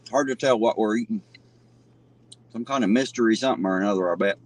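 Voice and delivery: talking through a mouthful; words round a bite of food; mouth full. Real, not acted. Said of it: "trying not to talk with my mouth full".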